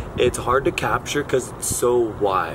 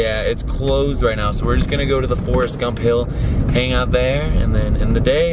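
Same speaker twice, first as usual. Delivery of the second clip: on a bumpy road; 6 dB louder than usual. Real, not acted. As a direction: voice jolted by a bumpy ride. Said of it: "Sorry for the shaky footage".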